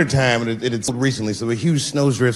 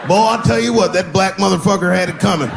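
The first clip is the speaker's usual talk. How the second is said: a hint of a smug country heckler, slightly higher; redneck heckler voice; 3 semitones higher than usual. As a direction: gloat like the guy who threw it. Voicing the banana thrower.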